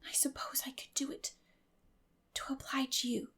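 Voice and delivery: put-on soft, pondering girl's voice; thoughtfully. A narrator's reading. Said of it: "said Anne thoughtfully".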